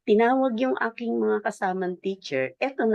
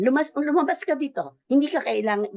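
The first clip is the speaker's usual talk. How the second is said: mild retold scolding, a touch raised; imitating a scolding; 5 semitones higher than usual. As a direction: lightly act out the principal sending her out. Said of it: "eto po yung ganyang salita niya". (banayad na ginayang pagpapalayas)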